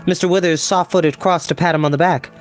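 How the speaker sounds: ordinary delivery, nothing marked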